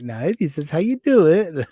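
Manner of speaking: mildly patronising imitation; lightly mocking, know-it-all correction; condescending. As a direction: mimic someone talking down to you. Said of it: "she's really condescending".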